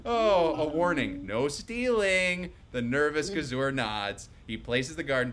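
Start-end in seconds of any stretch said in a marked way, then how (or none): 0.1-2.5 stern warning. Acted. Gorilla scolds the thief.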